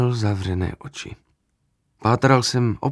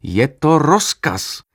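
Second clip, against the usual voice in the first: slow, louder shout; shouted order; 4 semitones higher, 6 dB louder, slower than usual. A narrator's reading. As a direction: shout it right in his face. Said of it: "křikl jsem mu do obličeje". (pomalý hlasitý výkřik)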